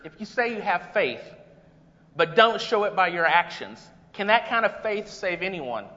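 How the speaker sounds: earnest, measured reading of James; scripture reading. Acted. Preacher reads James to the congregation, earnest. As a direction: read it like you mean every word.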